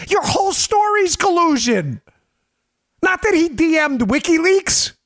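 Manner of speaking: high-pitched, incredulous argument; exasperated retort. Acted. Arguing back at Democrats about collusion, exasperated. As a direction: throw it back in disbelief.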